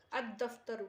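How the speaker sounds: الدفتر as "ad-daftar", lam assimilated into the doubled d; silent lam. Shown as a demonstration. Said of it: "یعنی لام کو نہیں پڑھا جا رہا ہے".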